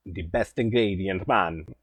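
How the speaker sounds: put-on a jokey Italian chef accent gone Jamaican; Italian accent slipping into Jamaican; failed Italian accent. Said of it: "I was, like, Jamaican, not Italian".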